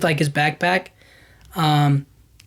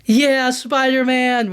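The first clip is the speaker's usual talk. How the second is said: mock cheer; 5 semitones higher, much slower than usual. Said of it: "the guy was like".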